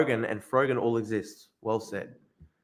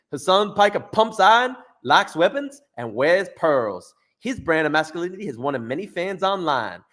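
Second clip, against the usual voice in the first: reading the article in a higher, louder Southern American accent; 4 semitones higher, 3 dB louder than usual. Shown as a demonstration. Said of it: "How's that, guys, for, like, a kinda, like, Southern accent?".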